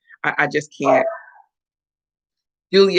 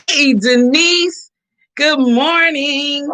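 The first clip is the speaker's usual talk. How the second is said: slow, high, louder hello; bright greeting; 6 semitones higher, 4 dB louder, much slower than usual. Real, not acted. Host greeting a chat listener, slow and high. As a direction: sing out a welcome to a friend. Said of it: "greeting chat listener warmly".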